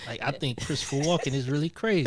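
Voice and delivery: hint of a conspiracy theorist. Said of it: "you got the conspiracy, uh, theorist voice too".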